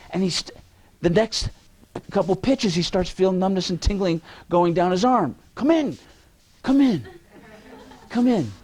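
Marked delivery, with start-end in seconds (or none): 5.5-8.5 teasing call. Acted. Calling in latecomer, teasing.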